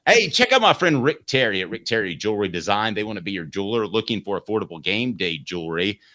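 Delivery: quick upbeat sponsor plug; ad read. Acted. Host reads a jewelry sponsor plug to listeners in an ad voice. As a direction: sell the jeweler brightly and fast.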